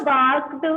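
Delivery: Barked with the ending spoken as a short T. Shown as a demonstration. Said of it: "क्या बोलेंगे हम".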